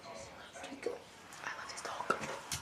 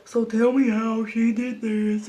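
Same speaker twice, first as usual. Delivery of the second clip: slow question, lightly voiced as a mother; the other mom; slower than usual. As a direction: imitate the other mom, slowly and firmly. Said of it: "And her mom was like".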